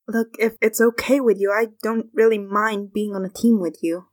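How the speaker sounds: mildly calm, even-voiced reassurance. Willow offers to team up with freaking-out Frog, very calmly. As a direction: put it to him evenly, without pressure. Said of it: "Willow says very calmly".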